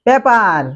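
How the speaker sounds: 'পেপার' with a hard unaspirated p; common Bengali mispronunciation. Shown as a demonstration. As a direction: say 'পেপার' the local way, plain p and flat e. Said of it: "আমরা বলি". (বাংলা ধাঁচে 'পেপার', শ্বাসহীন প)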